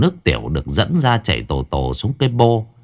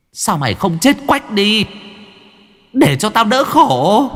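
mother's harsh words; 12 semitones higher than usual. A narrator's reading. Mother's cruel words recalled.

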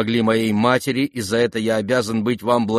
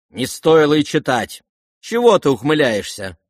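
raised, louder indignant snap; indignant scolding; 5 semitones higher, 5 dB louder than usual. Acted. Lizaveta scolding the prince over the letter, indignant. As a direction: scold him for smirking.

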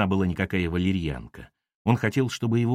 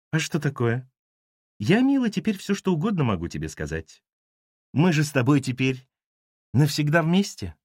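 sly taunt; 4 semitones higher than usual. A narrator's reading. Ira taunts him coldly.

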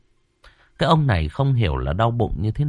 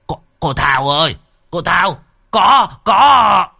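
building from a cry to a much higher, louder scream; panicked yell; 9 semitones higher, 7 dB louder, slower than usual. Acted. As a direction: yell for help in terror. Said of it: "hốt hoảng hét lên". (ông Long hoảng hốt hét gọi cô Thao)

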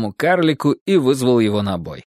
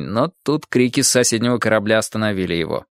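ordinary delivery

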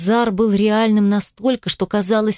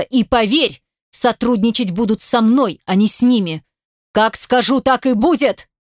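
furious threats; 2 semitones higher than usual. Acted. Father ranting, spraying spit.

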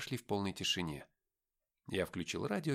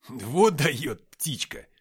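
slow, louder delighted cry; delighted shout; 4 semitones higher, 10 dB louder, much slower than usual. Acted. Nikita watching Gabriel take flight, shouting with delight. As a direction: cheer her on with glee. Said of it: "восторженно закричал".

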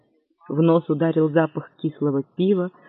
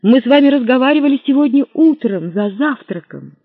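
pleading; 7 semitones higher, 5 dB louder than usual. Acted. Pleading hero.

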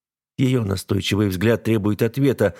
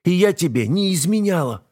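wife crying out that she knew nothing; cracking shout; 10 semitones higher than usual. A narrator's reading. Wife protests innocence.

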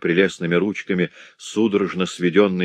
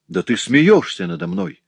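higher, mocking; teasing disbelief; 10 semitones higher, 3 dB louder than usual. A narrator's reading. Cecily goading Jacques, mock disbelief. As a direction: toss it off with a scoff.

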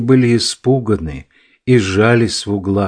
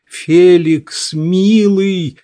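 higher, louder desperate call; shouting; 7 semitones higher, 3 dB louder, much slower than usual. A narrator's reading. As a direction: call out in panic. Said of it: "закричала она".

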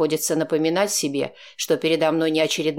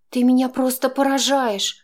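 higher, louder woman's voice, exclaiming in anger; Chaika, exclaiming angrily; angry exclamation; 9 semitones higher, 4 dB louder than usual. A narrator's reading. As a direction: burst out, pale with anger. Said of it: "воскликнула Чайка, побледнев, видимо, от гнева".

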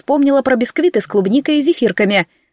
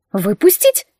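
smirking; slower than usual. Acted. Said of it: "хмыкнула я".

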